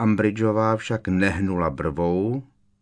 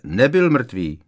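snapped back, a little louder; angry retort; 4 semitones higher, 7 dB louder, slower than usual. A narrator's reading. Harry snaps angrily at Umbridge. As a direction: cut her off in anger. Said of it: "odsekl vztekle Harry".

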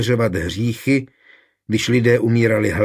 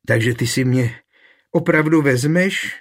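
rising, higher, louder delighted question; an understated squeal of joy; 5 semitones higher, 4 dB louder than usual. A narrator's reading. Dorotka hears that Jindřich will marry her, thrilled. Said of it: "vypískla nadšeně".

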